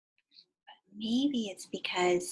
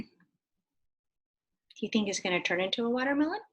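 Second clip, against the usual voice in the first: whisper. Acted. Whispered question to children.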